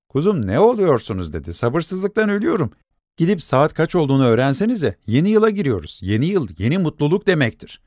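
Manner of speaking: dying for midnight to come; young woman's voice. Acted. Girl impatient for new year.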